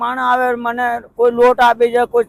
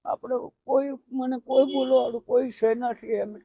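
soft, tearful words through real crying; 3 semitones higher, 5 dB quieter than usual. Real, not acted. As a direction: speaks quietly, close to tears. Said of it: "કેમ રડો છો દાદા?".

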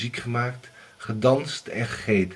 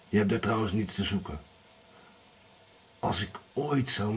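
lightly voiced warning husband; threatening. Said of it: "zei hij dreigend".

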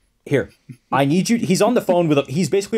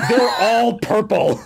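mild yell; 7 semitones higher, slower than usual. Retold or imitated. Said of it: "Cain just yells at him".

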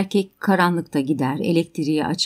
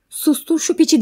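high-pitched quoted order; raised, sharply higher voice; retold shout; 9 semitones higher, 4 dB louder than usual. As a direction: yell it back, imitating the angry speaker. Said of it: "diye bağırdı".

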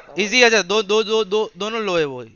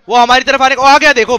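urgent callout; 5 dB louder than usual. Real, not acted. Urgent game callout to team.

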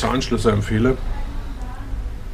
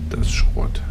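whispered; slower than usual. Real, not acted. Judging broken lock.

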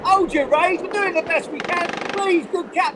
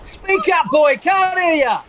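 shouting deaf captain; 2 semitones lower than usual. Acted.

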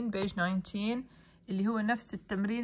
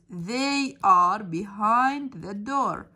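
loud slow dictation; 7 dB louder, much slower than usual. Shown as a demonstration. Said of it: "teacher models answer".

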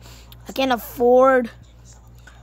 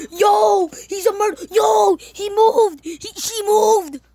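scared horror game streamer; 5 semitones higher, slower than usual. Real, not acted. Panic as creature moves.

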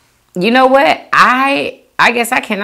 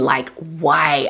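whisper; 7 semitones lower, 8 dB quieter than usual. Real, not acted. Emphasising how white they look.

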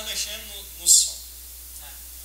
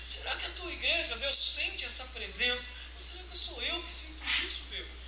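tearful prayer; 3 semitones higher than usual. Retold or imitated. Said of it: "comecei a chorar com uma dor".

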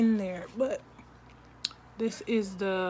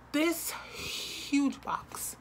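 awe; 5 semitones higher, much slower than usual. Real, not acted. Awed breathy aside.

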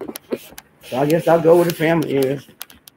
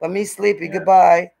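voicing the dog; 3 semitones higher than usual.

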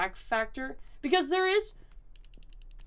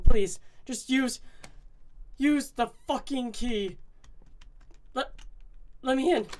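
desperate pleading. Real, not acted. Desperate to unlock door.

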